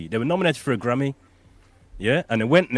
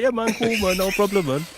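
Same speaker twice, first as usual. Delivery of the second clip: put-on own accent reply; 7 semitones higher than usual. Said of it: "It's like".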